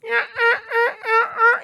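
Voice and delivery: high, far turkey hen clucks; turkey hen clucking. Shown as a demonstration. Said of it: "some hens that will go".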